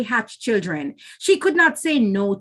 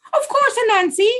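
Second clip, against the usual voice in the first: polite; 12 semitones higher than usual. A narrator's reading. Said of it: "the polite Missus Guinea Fowl said".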